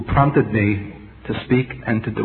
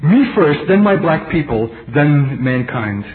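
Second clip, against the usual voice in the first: militant student; 2 semitones higher, slower than usual. Retold or imitated. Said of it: "she told me".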